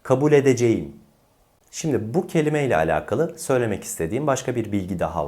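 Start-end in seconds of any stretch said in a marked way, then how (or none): 0.0-1.0 "edeceğim" fully sounded as e-de-ce-yim; wrong as-spelled pronunciation. Shown as a demonstration. Teacher shows learners the mistake, "edeceğim" as spelled. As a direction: say every written vowel in "edeceğim". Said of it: "Bu da yanlış olan telaffuz".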